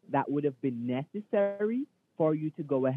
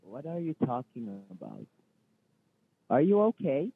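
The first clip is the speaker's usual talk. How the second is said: fake manager voice; 3 dB louder than usual. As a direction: pose as the boss with a dropped voice. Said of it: "you should give your voice a rest and go back to its natural state".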